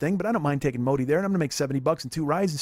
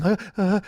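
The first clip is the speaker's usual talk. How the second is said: short mock sobs, pitched up; imitated sobbing; 4 semitones higher than usual. Driver imitates daughter shaking in the back seat, mock sobbing. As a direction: imitate a crying kid's gasps. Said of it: "shaking and crying".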